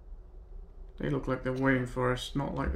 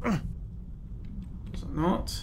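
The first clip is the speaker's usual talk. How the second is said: whispered; 4 semitones higher, 4 dB quieter, much slower than usual. Real, not acted. Wary aside in an ambush.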